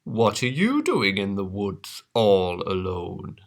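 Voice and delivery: a hint of a sly wolf; sly wolf, lightly done; lightly voiced wolf.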